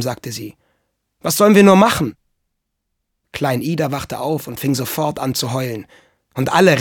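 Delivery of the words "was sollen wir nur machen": high, loud cry for help; distressed plea. A narrator's reading. Mama begs papa for help with Michel, distressed and loud. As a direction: wail it helplessly, without tears.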